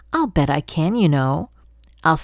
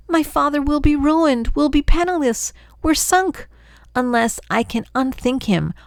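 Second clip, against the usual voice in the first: frightened worry; 6 semitones higher than usual. Acted. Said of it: "My sister shook with fright".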